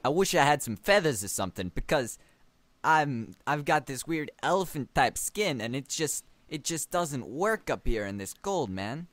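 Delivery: a hint of southern in a put-on voice; southern-tinged accent. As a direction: complain as a lightly southern character. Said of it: "now it's getting southern".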